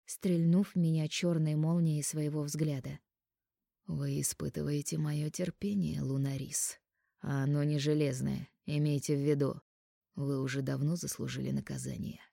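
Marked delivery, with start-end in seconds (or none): 3.9-12.2 low, quieter stern warning. Acted. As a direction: warn her darkly. Анхель warns sternly.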